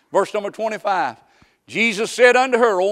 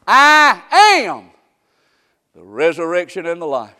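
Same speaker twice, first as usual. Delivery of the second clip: proclaiming shout; 12 dB louder than usual. Acted. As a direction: ring out each word from the pulpit. Preacher proclaiming Jesus' words.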